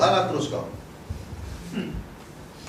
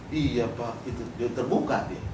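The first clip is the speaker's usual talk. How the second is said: lower, softer meek admission; naive activist; 5 semitones lower, 6 dB quieter than usual. Retold or imitated. Naive activist answering the police interrogator, meek and quiet. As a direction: imitate a clueless detainee owning up. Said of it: "Kalau di aktivis yang nggak ngerti".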